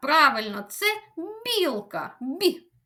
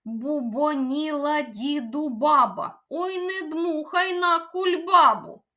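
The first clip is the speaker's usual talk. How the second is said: tongue twister said quicker; faster. Shown as a demonstration. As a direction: speed the twister up. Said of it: "спробуємо вимовити її ще швидше". (швидше, скоромовкою)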